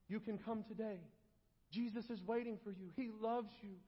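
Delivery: soft, coaxing altar-call invitation; hushed, imitated preacher's appeal; mock altar call. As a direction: gently invite them forward, as over a hymn. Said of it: "beg them to come forward".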